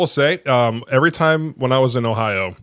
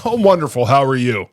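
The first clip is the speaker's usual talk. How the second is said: a hint of chirpy customer cheer; fake cheerful reply. Gym staff greeting members, light fake cheer. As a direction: brighten the first word only. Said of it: "classic gym response".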